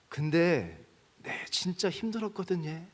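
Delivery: put-on slow, a touch tearful, as the old son; mild tearful confession, slowed down; retold crying. Old son tells his father's photo, mildly tearful. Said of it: "그러면서 막 우는 거예요".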